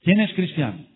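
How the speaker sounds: loud, high threatening shout; gunman's demand. Retold or imitated. Armed narcos shouting at the church crowd, menacing. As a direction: bark it like an armed thug. Gunmen repeat their demand.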